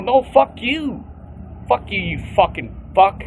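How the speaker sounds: escalating retold shouting match; mock furious yell. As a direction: top the last insult, drawn out and loud. Retold quarrel escalating to peak.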